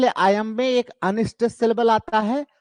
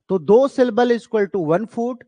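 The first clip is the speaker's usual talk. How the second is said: slow, deliberate definition; slow dictation; 3 semitones higher, 3 dB louder, much slower than usual. Shown as a demonstration. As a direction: spell it out slowly for notes.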